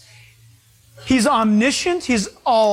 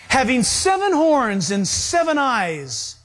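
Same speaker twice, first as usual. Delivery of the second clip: having seven horns and seven eyes, each word spaced out; slow it down so the flock takes it in; slow, deliberate reread. Shown as a demonstration. Preacher slowly repeating the vision to the congregation, deliberate. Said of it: "repeats slowly to explain".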